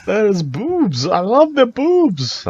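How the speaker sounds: slow, very high mock Jewish accent. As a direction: drag it out in a hammy Jewish accent. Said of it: "you kinda turned him Jewish".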